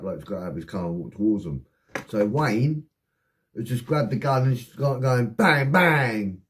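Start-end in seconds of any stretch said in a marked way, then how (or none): 5.3-6.4 two loud punched bangs; imitated gunshots. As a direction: mimic gunfire with your voice. Acting out gunfire.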